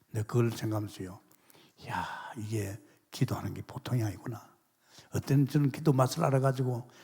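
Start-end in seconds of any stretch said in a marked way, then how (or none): 1.9-4.4 breathy awed whisper to himself; hushed marvelling aside; whispered inner thought. Retold or imitated. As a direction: whisper it like a private realization. Retold inner realization, whispered.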